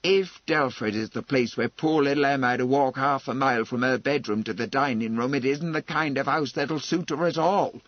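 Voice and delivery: indignant protest, mounting in force; gathering wrath. Acted. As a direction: let the indignation build as you argue. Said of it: "had been listening in gathering wrath".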